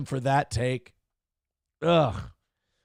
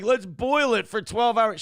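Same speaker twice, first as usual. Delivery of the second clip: higher, hammed-up Italian cook voice; mock Italian cook; 7 semitones higher, 3 dB louder than usual. Streamer mocking Italian cooks, higher hammed-up voice. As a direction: lampoon the fussy nonna with a raised voice.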